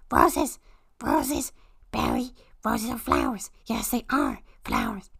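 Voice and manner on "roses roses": excited realization. Acted.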